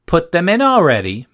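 high, loud sneering mimic; mock her in a high voice. A narrator's reading. Madison taunting the narrator in line, high mocking. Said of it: "Madison mocked in a high voice".

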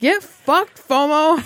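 laughing. Pretend. Mocking, laughing insult.

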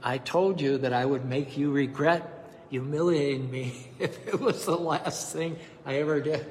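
warm chuckle breaking into the line; laughing. Acted. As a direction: laugh through the last words. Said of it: "The young man laughed and said".

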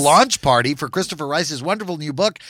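announcer voice. Acted. Mock radio segue back to party.

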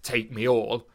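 a touch of lewd bluntness; crude paraphrase. Acted. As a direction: act out a crude proposition, lightly. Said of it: "in a very crude way".

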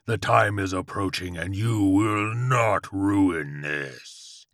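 drawn-out, ominous demon dog; howling demon Chihuahua. A narrator's reading. Chihuahua foretells its true form, drawn-out demonic howl. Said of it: "the Chihuahua howled".

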